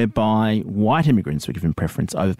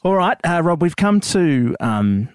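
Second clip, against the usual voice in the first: high, formal official announcement; official verdict voice; 4 semitones higher than usual. Acted.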